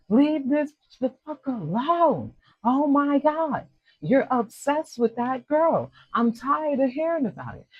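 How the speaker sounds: high-pitched, fed-up partner's rant; exasperated screaming argument. Acted. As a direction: nag them in acted, high-pitched exasperation. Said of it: "Somebody is screaming maybe at them. They're having an argument".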